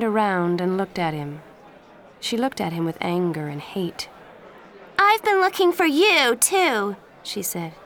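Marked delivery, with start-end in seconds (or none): 5.0-7.0 high, loud furious reply; angry retort. Acted. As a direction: throw his words back at him in anger. Angry girl confronts Danny.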